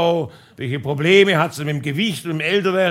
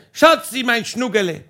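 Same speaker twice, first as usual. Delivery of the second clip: calling up sweet pet names, raised; retold calling out; 3 semitones higher than usual. Husband on the roof calls down to his wife, raised loving call. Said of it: "ich hab geschrien".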